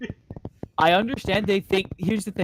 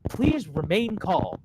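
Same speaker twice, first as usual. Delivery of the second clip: slow, calm mock pilot voice; lightly mocked calm announcement; 2 semitones higher, much slower than usual. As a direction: drag it out, mock soothing. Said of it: "not supposed to say things like".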